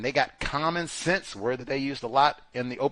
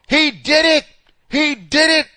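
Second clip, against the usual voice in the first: much higher, much louder shout; imitated yell; 14 semitones higher, 12 dB louder than usual. Witnesses on the sidewalk accusing the figure, yelling. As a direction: yell it down the street. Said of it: "what they yell out".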